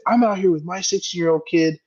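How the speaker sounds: high, mocking whiny voice of the angry dad. Retelling the golf dad yelling at him, high mock whine. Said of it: "He's like".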